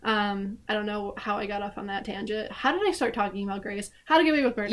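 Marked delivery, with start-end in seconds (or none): 2.5-4.7 fast, wired, rushed talking; racing through it, over-caffeinated; caffeine rush. Real, not acted. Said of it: "Coffee kicked in".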